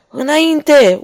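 high, loud battle cry forward; officer yells the charge; roared order. Acted. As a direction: howl the charge to the troop. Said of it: "urlă ofițerul".

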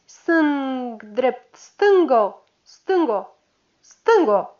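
cadență de marș, scandată tare; numără pasul patrulei; glas puternic. Acted. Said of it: "cu glasul puternic". (cadență de marș strigată)

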